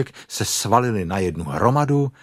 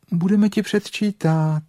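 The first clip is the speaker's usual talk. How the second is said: smiling; 11 semitones higher than usual. A narrator's reading. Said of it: "řekl králíček s úsměvem".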